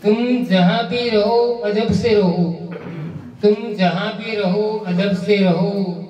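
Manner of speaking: measured Urdu couplet recitation; poetry recitation. Acted. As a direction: recite each verse with deliberate phrasing. Recites ghazal. (शायरी पढ़ने का ठहरा हुआ अंदाज़)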